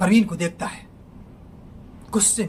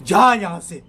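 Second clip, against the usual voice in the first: angry shout; 10 dB louder, slower than usual. Acted. Neeraj shouting at Parveen to get out. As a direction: chase him out with your voice. Neeraj throws out his friend.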